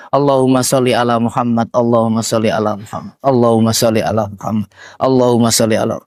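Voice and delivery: quick, low, repeated salawat; salawat recitation. Shown as a demonstration. Preacher models good tongue practice for the women, rapid salawat repetition. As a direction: run the blessing round briskly on a low pitch.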